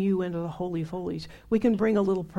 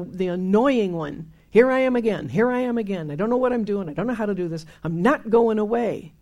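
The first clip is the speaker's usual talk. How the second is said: insistent, raised voice, pleading with God; loud determined prayer; 6 dB louder than usual. Retold or imitated. Seeker crying out to God, refusing to quit, loud.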